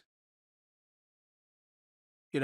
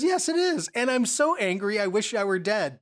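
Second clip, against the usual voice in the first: angry Jonah; 4 semitones higher than usual. Acted. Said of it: "So Jonah's angry and says".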